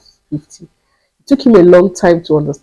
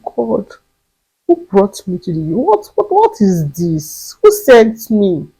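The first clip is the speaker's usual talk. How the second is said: despair; 2 semitones higher, slower than usual. Retold or imitated. Despairing cry to God.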